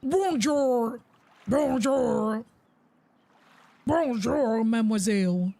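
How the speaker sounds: a lightly put-on, clumsy French accent; bad French accent. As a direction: mimic the shopkeeper's French accent, badly. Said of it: "That French accent was terrible".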